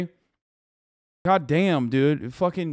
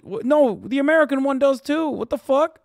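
high-pitched, exasperated contradiction; incredulous rebuttal; 9 semitones higher than usual. Real, not acted. Streamer countering what people say about American oligarchs, incredulous. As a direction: jump up in pitch to shoot the claim down. Rebuts the view just voiced.

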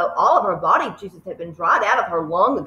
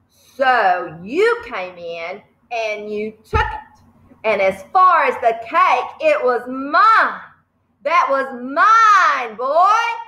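slow, heavy headmistress rant building louder; Trunchbull ranting; 3 semitones higher, 4 dB louder, slower than usual. Acted. Headmistress claiming the cake as hers, slow and rising. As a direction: lean on mine. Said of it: "reader voices the Trunchbull".

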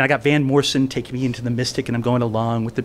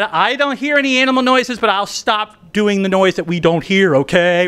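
higher, wide-eyed mock innocent denial; feigned innocence; 5 semitones higher than usual. Storyteller plays innocent to the student, higher innocent voice. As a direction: pretend you hear nothing at all. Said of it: "I pretended to be innocent".

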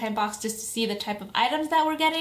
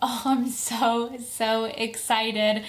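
excited anime fan; slower than usual. Real, not acted. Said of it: "overjoyed with excitement here".

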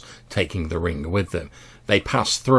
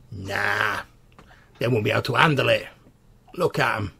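louder, fast sneering goblin; scrawny goblin; 2 semitones higher, 5 dB louder, faster than usual. Acted. Goblin at the door scoffs at the mortals, loud and sneering. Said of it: "a scrawny goblin".

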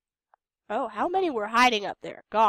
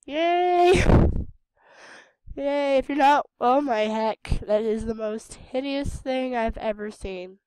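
excited; 7 dB louder, slower than usual. Real, not acted. Reacting to hideous character design.

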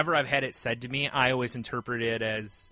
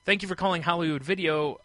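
scripted phone greeting; 3 semitones higher than usual. Retold or imitated. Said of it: "Here's how we want you to answer the phone".

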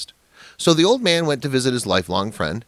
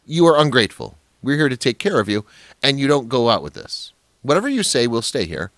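louder and higher, a daughter snapping at her father; indignant scolding; 4 semitones higher, 3 dB louder than usual. A narrator's reading. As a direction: throw the ingratitude back at him.

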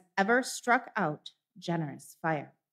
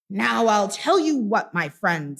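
loud, threatening opening; mock stern warning; 4 dB louder than usual. Scrooge pretends to threaten Bob, loud and menacing. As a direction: build the threat up. Master warning his clerk.

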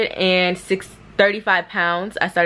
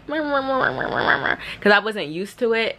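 numb-lips mumbling; 3 semitones higher, much slower than usual. Retold or imitated. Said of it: "Before I was like".

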